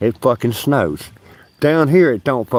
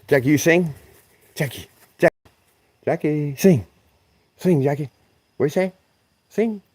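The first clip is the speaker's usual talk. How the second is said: higher coaxing voice to the dog; 5 semitones higher than usual. Real, not acted. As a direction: sweet-talk Jackie into singing. Coaxing a pet to sing.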